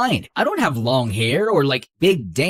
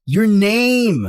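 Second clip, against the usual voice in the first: exasperated shout; 5 semitones higher, 4 dB louder than usual. Acted. Bickering in the car.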